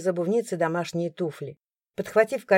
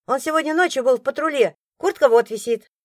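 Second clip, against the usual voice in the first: put-on high, loud little boy; a boy explaining eagerly; child voice; 6 semitones higher, 5 dB louder than usual. A narrator's reading.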